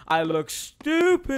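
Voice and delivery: silly high voice. Acted. Mocking own reflection.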